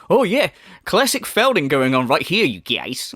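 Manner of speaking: smug mimicry, dropping on you guys; mock quote. Commentator parodying the streamer's tangents, smug mimicry. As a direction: toss it off smugly like him.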